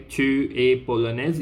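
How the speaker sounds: "Tu es polonaise" asked with a rising tune; teacher's model question, "Tu es polonaise" lifted toward the end; question intonation. Shown as a demonstration. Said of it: "You are using the intonation form".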